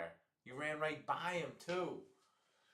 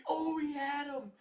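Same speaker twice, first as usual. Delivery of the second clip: much higher, louder, slow outcry; anguished fan yelp; dismayed cry; 7 dB louder than usual. Real, not acted. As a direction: groan out the missed chance. Missed throw reaction.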